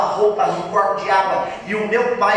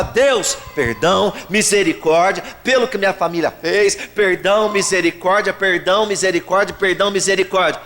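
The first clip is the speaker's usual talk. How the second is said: pleading prayer. Retold or imitated. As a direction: call out perdão, misericórdia as a plea. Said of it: "Eu só falava".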